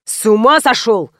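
mild mock yell. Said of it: "вопль Сени".

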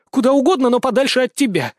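high, loud defiant retort; snorting. A narrator's reading. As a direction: snap it back, loud and high. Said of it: "фыркнула девчонка". (громко и высоко, с фырканьем)

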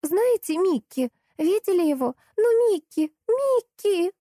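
put-on high, pleading child's voice, rising as she calls; a small girl calling out for her dog; high child's voice calling a name; little girl calling. A narrator's reading. Girl keeps calling for Mickey.

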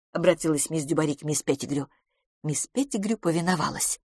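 ordinary delivery, nothing marked

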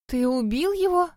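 испуганный вскрик, выше и громче; вскрикнуть в испуге; испуганно вскрикнула. A narrator's reading. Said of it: "испуганно вскрикнула я". (высокий, испуганный вскрик)

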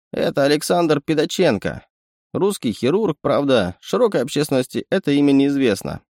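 a sly little animal sidekick; sly chittering raccoon. Acted. Raccoon presents.

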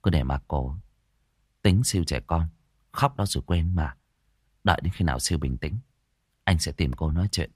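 low, dismissive grumble; Hùng, annoyed. A narrator's reading. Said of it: "Hùng khó chịu". (khó chịu, gạt đi)

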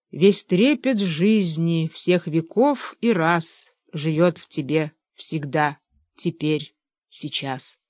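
slow, measured verse recital; poem reading. Acted. Benedikt reads a poem from an opened book, measured recital.

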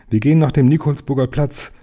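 mild call. Acted. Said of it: "rief der Professor".

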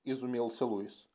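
ordinary delivery

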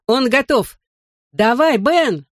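high, eager cheering on; calling out. A narrator's reading. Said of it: "крикнул я".

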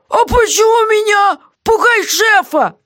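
high, loud frightened plea; scared jailer. Acted. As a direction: beg off the ghost in a panic. Guard frightened of ghost.

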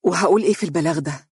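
lifeless, submissive question; as if hypnotized. Acted. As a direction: say it like a sleepwalker, defeated. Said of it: "قالت وكأنها منومة وقد انتزعت إرادتها".

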